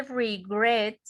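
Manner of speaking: slow "regret", accent on GRET; stress on second syllable. Shown as a demonstration. Teacher pointing out the accent, "regret" stressed on GRET. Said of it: "acá es donde va el acento".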